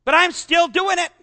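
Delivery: mock quote. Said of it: "someone to say".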